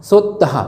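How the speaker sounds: सोत्तहा with its last syllable released as "ha"; breathed final h. Shown as a demonstration. Teacher repeating the visarga example, सोत्तहा with the final हा sounded. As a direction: let a clear हा out at the end of सोत्तहा. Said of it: "ह का pronunciation निकलता है".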